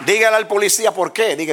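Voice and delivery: high, loud preacher's call; rally the congregation; preaching exhortation. Real, not acted. Pastor urges church to answer police, loud high preaching.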